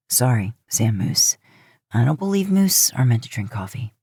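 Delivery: a hint of a teasing older brother; Dean voice. Dean speaks to moose Sam.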